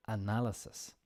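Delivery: analysis with na stressed; analysis, leaning on na; teacher repeating analysis, stress on na. Shown as a demonstration. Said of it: "The stress is on the na".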